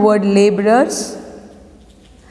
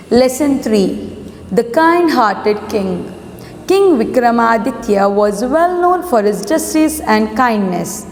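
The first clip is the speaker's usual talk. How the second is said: slow, measured classroom reading; story read-aloud. A narrator's reading. Teacher reads a lesson to students, measured story read-aloud. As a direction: read the title and opening deliberately.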